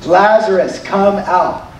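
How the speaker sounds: slow, measured summons with long pauses; unhurried command, starting low; simple command. Retold or imitated. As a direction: summon him simply and solemnly. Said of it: "he simply says this".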